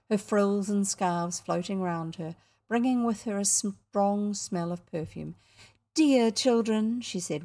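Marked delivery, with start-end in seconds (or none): 5.9-7.0 slow, louder, pitched-up effusive welcome; gushing hostess. A narrator's reading. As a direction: greet children in syrupy, drawn-out tones.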